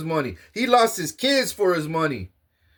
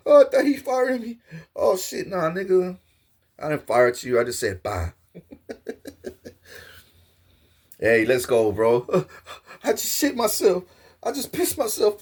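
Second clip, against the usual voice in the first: terrified man. Acted. Scared man after fake shot.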